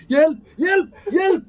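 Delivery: high, loud screams for help; a musician. Acted. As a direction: shriek desperately, each cry separate. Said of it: "Och han säger".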